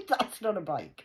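loud, high scoff at the bike; scornful. Real, not acted. Mocking the lads' small bike, loud scornful scoff.

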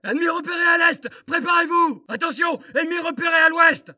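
shouted enemy warnings; alert callouts. Acted. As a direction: bark out the sighting. Appels d'alerte ennemi. (annonce d'alerte criée)

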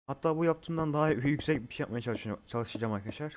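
tongue tripping from a dry mouth; stumbling over words, mouth dry. Real, not acted. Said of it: "Ağzım kuruyor". (ağız kurumuş, dili dolanarak)

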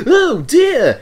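high, alarmed cry; startled exclamation. A narrator's reading. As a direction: gasp it out in fright. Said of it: "exclaimed Thomas".

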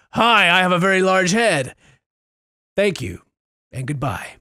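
mock-polite little character speech; lightly voiced game character. Voicing the big-headed game character.

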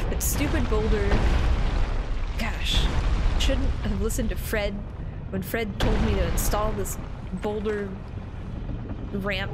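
mild grumbling. Acted. Streamer voicing an enemy annoyed at his boulder, lightly grumbling. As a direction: grumble like a fed-up guard walking back. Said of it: "I could hear him grumbling".

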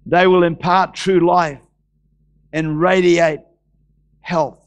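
preach. Acted. Reads scripture aloud.

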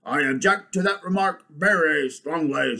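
loud, emphatic bulldog objection; indignant bulldog. Acted. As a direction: protest firmly as the bulldog. Bulldog figure objects in story.

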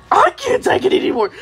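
high, fast cartoon cry; rushed, high-pitched breaking point; exasperated outburst. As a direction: burst out high as if finally snapping. Character snaps after holding it in.

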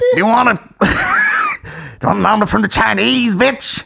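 high-pitched stand-up question; Dave Chappelle impression. Comic offering mother a takeaway, high impression. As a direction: rise high into the last word. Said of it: "with the Dave Chappelle voice".

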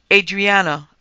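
crying out. A narrator's reading. Father to hysterical daughter, crying out. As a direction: call out sharply to bring her to her senses. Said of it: "he cried".

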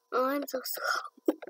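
whisper. Real, not acted. Whispered complaint.

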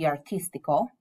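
artístico with the weight on the TÍS; stress on second syllable. Shown as a demonstration. Spanish teacher models artístico for the class, stressing TÍS. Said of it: "stress is on that second syllable".

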